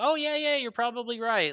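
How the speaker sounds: very high, smiling, humoring, fake agreeable tone.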